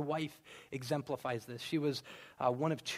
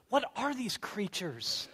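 bewildered mom; 6 semitones higher, slower than usual. Retold or imitated. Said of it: "she'll say this".

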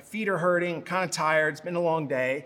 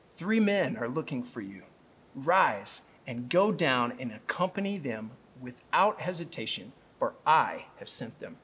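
lower, measured voice of divine instruction; Holy Spirit's voice; 5 semitones lower than usual. Acted. The Holy Spirit instructs Peter, low and measured. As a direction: give the command low and unhurried. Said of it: "The Holy Spirit said to him".

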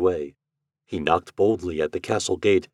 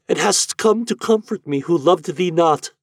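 remorseful cry; 10 semitones higher, 4 dB louder than usual. A narrator's reading. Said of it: "cried Eloise".

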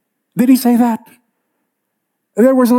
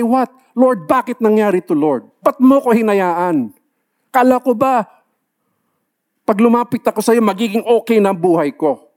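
complaining believer; 3 semitones higher than usual. Retold or imitated. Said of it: "They immediately say".

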